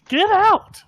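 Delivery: high, sudden hammed-up yell; mock shout. Zach throwing the fake mom off the bus, shouting. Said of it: "He goes".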